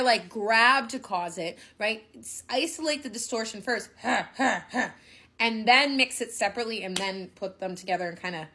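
ordinary talk, nothing marked

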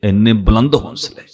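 slow, mildly awed exclamation; retold amazement, slow and low-key; astonished. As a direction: imitate a stunned onlooker, drawing out the words. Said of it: "ਉਹ ਹੈਰਾਨ ਹੋ ਕੇ ਕਹਿੰਦਾ".

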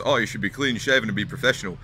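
mock scolding in an Australian accent; loud, put-on Australian voice of society. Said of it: "I don't know why I'm doing this Australian accent".

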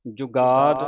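ਜੁਗਾਦ said firm and tight; ਜੁਗਾਦ with a taut, firm finish; tightly pronounced. Shown as a demonstration. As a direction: bear down firmly on ਜੁਗਾਦ. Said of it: "ਕੱਸ ਕੇ ਬੋਲਣਾ".

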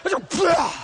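slow, high, loud call to the room; preacher's big slow cry; preaching shout. Acted. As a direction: stretch it out and lean into the crowd. Preaching loudly to congregation.

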